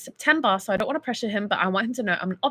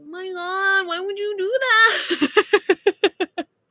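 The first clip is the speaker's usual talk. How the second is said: very high, put-on tipsy, drunken outburst; 9 semitones higher, 3 dB louder than usual. Retelling what she said drunk after a man's accident, retelling her drunk voice. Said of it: "in my drunken state, I went".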